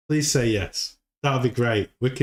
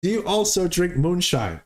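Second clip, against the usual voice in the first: mock old neighbor; 6 semitones higher than usual. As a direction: stretch it out like an old hillbilly. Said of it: "And the neighbor's like".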